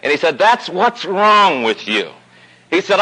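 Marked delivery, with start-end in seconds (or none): 0.4-2.1 slow, restrained irritation held through the teeth; patient but seething, spelled out slowly; through gritted teeth. Retold or imitated. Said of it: "but he was biting his teeth now".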